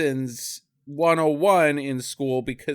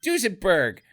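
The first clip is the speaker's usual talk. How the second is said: high, slow, drawn-out whine; mocking whiny voice; 8 semitones higher than usual. Relatives whining over a lost inheritance, high and slow. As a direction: stretch out the disappointment in a high whine. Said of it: "and they're like".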